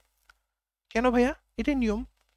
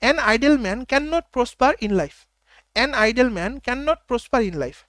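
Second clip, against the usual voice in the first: very slow, each word set apart; teacher's slow model sentence; slow dictation; much slower than usual. Shown as a demonstration. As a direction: drill the sentence slowly for students. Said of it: "তাহলে কি মনে রাখবো?".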